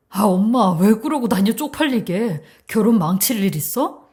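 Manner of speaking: fed-up, insistent reproach; exasperated scolding. Acted. Son rebukes his mother for ruining the wedding, exasperated. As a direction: scold with rising impatience.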